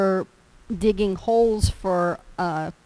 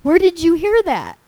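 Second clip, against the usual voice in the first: high, loud shocked "where did you hear that"; a startled dad demanding an answer; high, loud alarmed question; shocked father; 8 semitones higher, 7 dB louder than usual. Retold or imitated. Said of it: "my dad was like".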